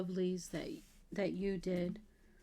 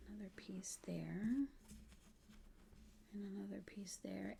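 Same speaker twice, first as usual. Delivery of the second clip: softer whispered showing of each piece; hushed whisper; 14 dB quieter than usual. Real, not acted. Laying out lace pieces for viewers, whispering. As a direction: whisper as if not to disturb the lace.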